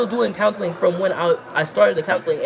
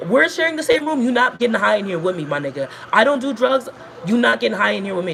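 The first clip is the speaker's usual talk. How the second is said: retold angry yell; 4 semitones higher than usual. Yelling at meth-smoking roommate.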